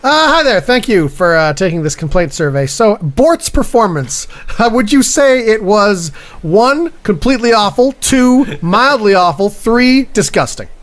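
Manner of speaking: lightly voiced chipper survey taker; a hint of customer-service sing-song; complaints clerk. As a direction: read out the options like a polite clerk.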